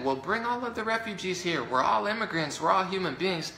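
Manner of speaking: high, sing-song mock idealist; sarcastic high impression of an activist; mocking naive activist. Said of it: "people ... that are saying".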